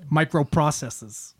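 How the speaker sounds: slow, drawn-out mock Boston accent; terrible Boston accent. Shown as a demonstration. Showing a friend the joke, slow bad Boston accent. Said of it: "Boston accent".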